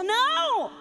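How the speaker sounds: sharp no. Real, not acted. Cuts off the mocked mother.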